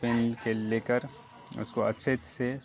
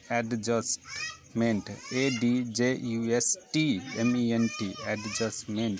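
slow repeat; slower than usual. Shown as a demonstration. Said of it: "शायद सुनाई नहीं पड़ा होगा".

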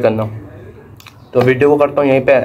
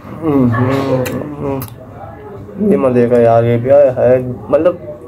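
speaking with food in mouth; chewing between words; talking while chewing; much slower than usual. Real, not acted. Seen 1: Bit a biscuit at -4; lips pressed, chewing motion through 1.7.

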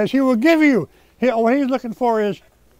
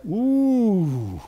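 long ooh. Real, not acted. Reacting to the quoted accusation.

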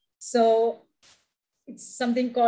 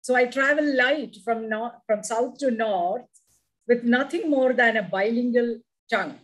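poem recitation. Acted. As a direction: savour each line of the poem. Poem reading.

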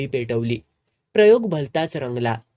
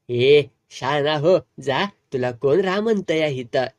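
enraged snap. Acted. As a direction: bite off each word at him, fuming. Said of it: "खवळलेच".

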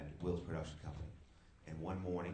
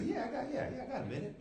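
eager; faster than usual. Retold or imitated. Eager reply to the boss.

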